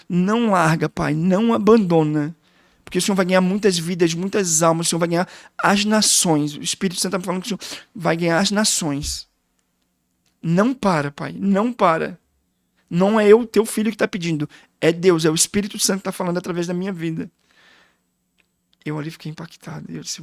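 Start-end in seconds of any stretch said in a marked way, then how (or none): 0.1-6.6 imitating a son's insistent plea; retold tearful plea. Son begging his father not to give up, retold tearful plea. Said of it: "E ele derramado, pastor, chorando". 10.4-17.3 retold tearful plea. Son telling his father God speaks through him, retold tearful plea. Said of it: "E ele derramado, pastor, chorando".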